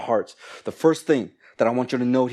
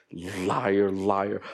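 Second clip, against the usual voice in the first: lower, dry aside of disbelief; muttered inner accusation; 4 semitones lower, 4 dB quieter than usual. Acted. Preacher thinking about someone saying they're fine, low accusing aside. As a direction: drop the voice and accuse knowingly. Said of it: "You're just like".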